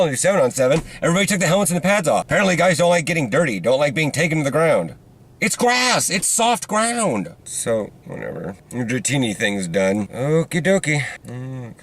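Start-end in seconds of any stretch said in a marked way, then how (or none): 5.4-7.3 incredulous. Real, not acted. Mocking teammates afraid of dirt.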